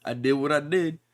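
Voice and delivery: lightly voiced unbothered villain, measured delivery; Barum. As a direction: play him casually owning up, a touch deadpan. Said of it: "Barum just sitting there like".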